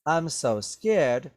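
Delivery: slowed mock fear; sarcastic. Shown as a demonstration. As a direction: say it like you don't mean it. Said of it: "He said that sarcastically".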